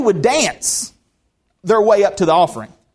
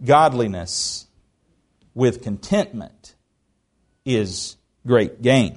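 lower, softer and slow, letting it sink in; slow quiet repetition; 7 semitones lower, 3 dB quieter, slower than usual. Shown as a demonstration. Preacher repeating the verse to his church, softly and slowly. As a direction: say it back gently like a settled truth. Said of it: "verse repeated as closing reflection".

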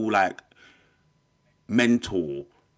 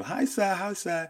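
high, bright-eyed little hello to a teacher; eager greeting; 9 semitones higher, slower than usual. Retold or imitated. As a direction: greet him like an excited pupil. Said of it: "Every single time I see him".

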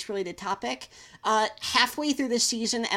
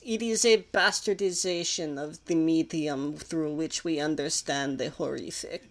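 lightly put-on pompous continental philosopher; lofty, lecturing European intellectual tone; snooty European voice; 5 semitones lower than usual. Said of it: "I was just doing, like, a snooty European voice".

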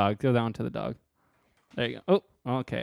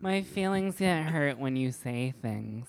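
mocking whiny poster; 2 semitones higher, 3 dB quieter, slower than usual.

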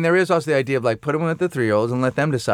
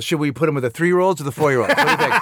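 put-on much higher, eager child voice, taunting; mocking kid voice; 9 semitones higher than usual. Son mock-asking his dad where to put the crying toddler, high and giddy. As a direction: play the cheeky little kid egging dad on. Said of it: "And then Finn goes".

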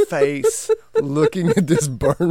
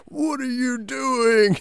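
slow, higher mock puzzled wife; lightly voiced busy mother asking; imitating wife; 9 semitones higher, slower than usual. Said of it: "so my wife goes".

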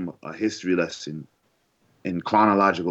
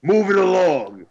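breathy whisper, higher pitch; 9 semitones higher, 5 dB louder, slower than usual. Acted. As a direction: slip it in as a whisper. Whispered transition.

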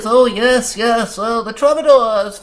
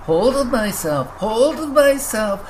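very high, slowed, hysterical echo; near-hysterical creature babbling; clinging on and losing control; almost hysterical; 9 semitones higher than usual. Acted. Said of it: "asked the Grucken almost hysterically".

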